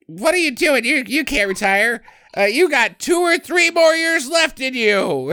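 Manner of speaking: high mock wife nagging. Wife pushing her husband not to retire, high mock squeak. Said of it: "his wife, she's like".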